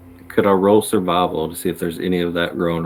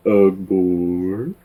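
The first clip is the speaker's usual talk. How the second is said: lightly voiced old dude; mild old-man grunt; old man grumble. Shown as a demonstration. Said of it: "I like playing older dudes".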